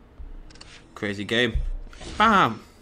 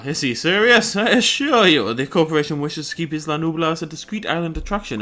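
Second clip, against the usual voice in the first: posh villain; 3 semitones higher, 6 dB louder than usual. Acted. Voicing posh evil character's dialogue.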